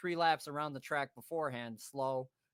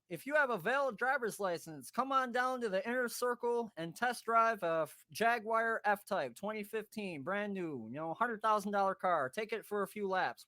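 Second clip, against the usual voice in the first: higher-pitched public announcement, lightly put on; lightly imitated PA announcer; 5 semitones higher than usual. PA invites drivers to test drive, light announcer imitation. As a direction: announce it like a racetrack PA. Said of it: "over the P A announcements we hear".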